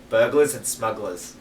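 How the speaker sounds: attempted Boston accent, dropping the R's; Boston accent drifting toward Australian. Shown as a demonstration. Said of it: "preparing for a Boston accent would be".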